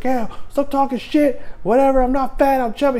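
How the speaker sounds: high-pitched cheeky retort; mock defiant comeback. Soldier answering the angry civilian, mock defiance. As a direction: talk back in a put-on high voice.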